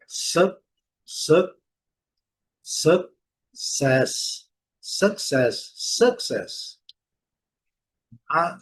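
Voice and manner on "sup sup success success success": "success" with a neutral first vowel; English schwa pronunciation. Shown as a demonstration. Teacher modelling "success" for students, English pronunciation. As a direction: say "success" syllable by syllable, then whole. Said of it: "Mesma coisa".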